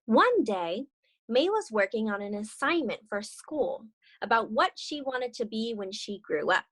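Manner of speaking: gentle read-aloud storytelling; story narration. Acted. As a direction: read it like a children's picture book. Reads the picture book aloud.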